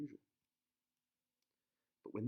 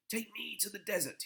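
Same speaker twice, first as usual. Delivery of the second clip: urgent prince; 11 semitones higher, 4 dB louder than usual. Acted. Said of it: "he said".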